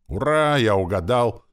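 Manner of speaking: high, loud little cheer; joyful. A narrator's reading. Pupil who guessed the answer, joyful. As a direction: exult at the lucky guess.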